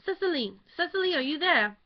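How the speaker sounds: calling out high and urgent, out of breath; a frantic mother calling her daughter; breathless high call; breathless cry. A narrator's reading. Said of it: "a breathless voice cried".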